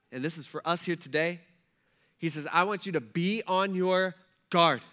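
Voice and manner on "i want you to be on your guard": slow, louder, higher insistent warning; urgent warning. Retold or imitated. Preacher voicing Jesus warning his disciples, slow and louder. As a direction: press each "I want you" home with urgency.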